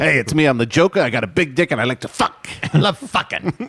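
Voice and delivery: lightly voiced villain introducing himself; Alan Arkin as the Joker. Villain boasting crudely, light actor impression. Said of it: "Batman, Alan Arkham Asylum".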